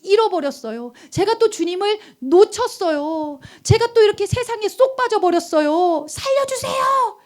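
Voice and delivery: pleading prayer building to high cries; earnest crying out. Acted. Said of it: "간절히 부르짖는 거예요". (간절한 기도에서 절규로 고조)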